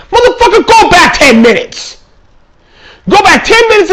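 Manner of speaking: high, laughing cry of disbelief; laughing exasperated yell; laughing outburst. Real, not acted. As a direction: burst out laughing at the question.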